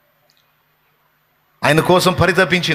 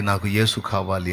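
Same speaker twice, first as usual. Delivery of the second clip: softer echo of the plea, యేసు stretched; fading plea; 7 semitones lower, 7 dB quieter than usual. Acted. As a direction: lower and much softer, almost breaking off. Mary's plea, said twice.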